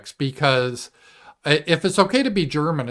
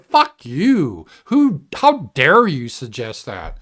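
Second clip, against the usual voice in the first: mild defiant retort; 2 semitones higher than usual. Pretend. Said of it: "and say".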